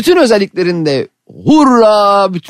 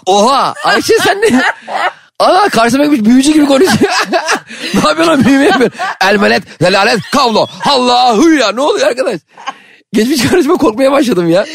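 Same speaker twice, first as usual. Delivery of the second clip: laughing; 10 semitones higher than usual. Real, not acted. Laughing shock at backwards spell.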